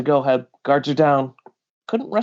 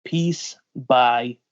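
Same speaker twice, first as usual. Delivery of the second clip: menacing threat; 3 semitones lower, 4 dB quieter than usual. Acted. S2 voices captor's threat.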